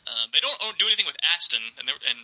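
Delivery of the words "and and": whispering. Real, not acted. Aside about the old car.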